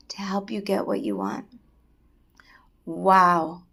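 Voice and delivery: whispered wonder; awed whisper. A narrator's reading. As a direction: hush as if awestruck. Awed secret revealed.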